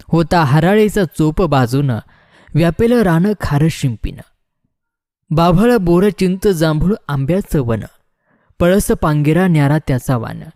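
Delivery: measured, metrical verse reading; ballad verse recitation. Acted. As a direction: recite it line by line, drawing out some phrases.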